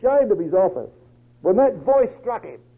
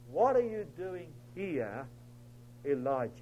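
still small voice; 4 semitones lower, 11 dB quieter than usual. Acted. God's voice asking Elijah once more, still small voice. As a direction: put the question softly and let it fall. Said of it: "was that still small voice".

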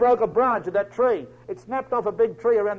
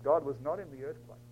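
soft, lowered preacher's voice; sudden hush; 6 semitones lower, 10 dB quieter than usual. Acted. Preacher on Elijah alone after the earthquake, sudden hush. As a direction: drop away into quiet emptiness.

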